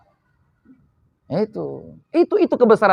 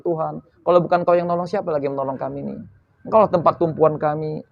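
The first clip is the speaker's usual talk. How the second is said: softer, humble begging prayer; pleading, begging; 4 semitones lower, 5 dB quieter, faster than usual. Retold or imitated. Believer begging God for help, soft and humble. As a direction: beg God quietly as your only refuge. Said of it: "memelas dan mengiba".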